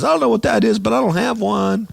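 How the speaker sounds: imitating a man losing it, mildly; mock outburst. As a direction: fake a frantic denial. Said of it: "And then he just went nuts".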